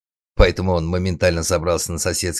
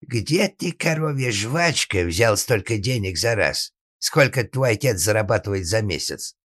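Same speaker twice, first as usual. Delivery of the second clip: angry father; 5 semitones higher than usual. Acted. Angry father interrogates his son.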